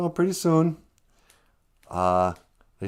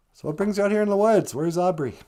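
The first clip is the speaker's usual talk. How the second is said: high voiced fox; 9 semitones higher, 3 dB louder than usual. Wagosh voiced in a story.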